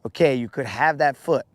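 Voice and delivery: bargain, then shriek at losing the abdomen; bargaining bug turning to panic. Pretend. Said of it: "I'd be like".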